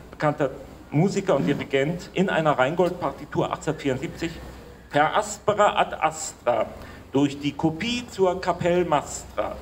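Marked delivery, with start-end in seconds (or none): 4.9-9.6 measured, declaimed verse with pauses; formal light-verse reading; poem recitation. Acted. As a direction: recite the rhymes line by line, deliberately.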